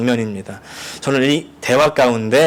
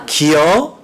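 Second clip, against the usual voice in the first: a lilting Chungcheong 기요, laughing a little; Chungcheong dialect; 2 semitones higher, 3 dB louder, much slower than usual. Retold or imitated. Preacher mimicking dialect words, amused. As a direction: toss it off like a Chungcheong local. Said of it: "충청도 사투리를 세 가지 단어로 요약".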